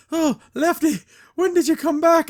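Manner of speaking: high, hammed-up crazy old-timer impression; crazy townsman. Voicing crazy Wally greeting his hand.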